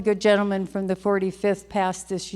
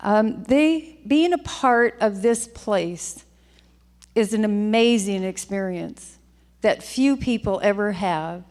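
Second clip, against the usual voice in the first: getting emotional. Real, not acted. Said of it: "I'm just a little emotional".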